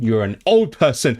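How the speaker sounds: mock-mean taunt, punching the key word; playfully mean. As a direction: tease as if insulting someone, about to laugh. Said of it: "if I want to be mean".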